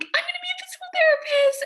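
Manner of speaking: excited news. Retold or imitated. Calling mom with big news.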